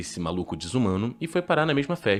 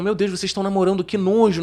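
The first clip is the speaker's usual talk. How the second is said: mock disgusted friend; 9 semitones higher, 6 dB louder than usual. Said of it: "Aí o Zac Efron".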